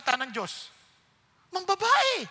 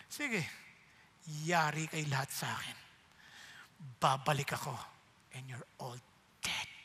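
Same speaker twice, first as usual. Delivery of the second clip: hypothetical vengeful threat; 10 semitones lower, 7 dB quieter than usual. Pretend. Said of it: "pwede sabihin".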